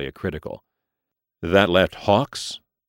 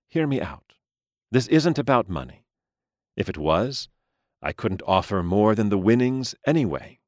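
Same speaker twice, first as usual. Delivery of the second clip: placating gentleman voice; 4 semitones higher than usual. Acted. Mister Lee placating.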